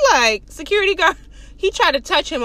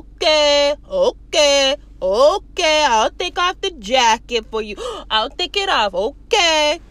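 drawn-out mock okays with a gasp; hammed-up giving in, stretching each okay; exasperated compliance; slower than usual. Man surrenders jacket to guard, exasperated.

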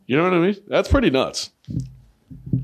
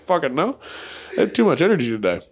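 ordinary talk, nothing marked

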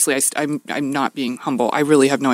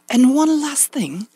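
high, slow, drawn-out proclamation; imitating a presenter's slow, high announcement; ceremonious announcement; 10 semitones higher, much slower than usual. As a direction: announce a grand surprise, stretching it out. Dean announces a surprise award.

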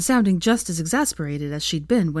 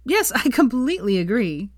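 higher, bouncy agreement; cheerful; 6 semitones higher, 3 dB louder than usual. Acted. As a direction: bounce along happily. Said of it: "said Veronica cheerfully".

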